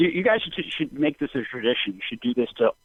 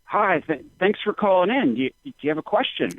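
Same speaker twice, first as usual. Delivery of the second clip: imitating a radio host; 6 semitones higher than usual. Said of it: "They're like".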